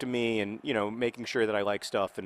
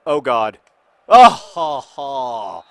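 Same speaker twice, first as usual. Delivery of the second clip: startled laugh; 13 dB louder, much slower than usual. Real, not acted. Sudden reaction during football game.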